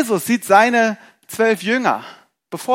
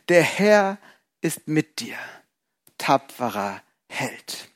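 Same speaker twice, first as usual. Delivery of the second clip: solemn angel's greeting; 2 semitones lower, 4 dB quieter, slower than usual. Acted. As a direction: speak it slowly like an angel blessing.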